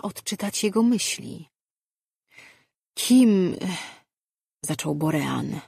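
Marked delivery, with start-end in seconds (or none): 2.9-3.6 higher, louder single word, cut off; startled challenge. A narrator's reading. Uncle to intruder in the doorway, startled challenge. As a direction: call it out sharply at a stranger.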